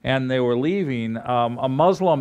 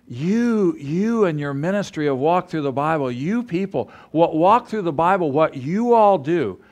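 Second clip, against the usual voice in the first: quoting the audience's "you people" with raised pitch; mimicking listeners; 4 semitones higher than usual. Preacher mocks how listeners talk about the ministry, in a raised mocking voice. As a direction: tease the crowd by aping their outsider talk. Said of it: "you're saying things like".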